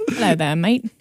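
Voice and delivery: attempted British that lands Australian; lightly put-on Australian greeting; Australian accent. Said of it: "That's Australian".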